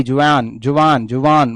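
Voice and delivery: जुवान drawn out slowly to sound like "jawaan"; sound-alike pronunciation. Shown as a demonstration. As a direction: stretch जुवान with a long "aan" so it echoes "jawaan". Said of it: "sound भी जवान जैसा आ रहा है".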